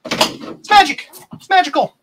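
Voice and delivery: high, slow, breathy wizard voice; mystical whisper. Pretend. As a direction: whisper it like a magic trick. Mock-mystical remark on the board working.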